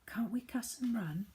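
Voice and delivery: whispered suggestion. Acted. Sheila whispering to the others, hushed. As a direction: breathe it under your breath. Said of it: "suggested Sheila".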